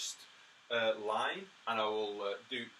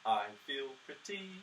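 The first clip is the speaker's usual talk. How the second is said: spoken rhythm of lyric; 2 semitones higher, slower than usual. Shown as a demonstration. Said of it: "if you know the words".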